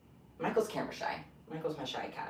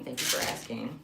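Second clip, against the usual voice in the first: Midwestern accent; 3 semitones lower than usual. Real, not acted. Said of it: "That sounded so Midwestern".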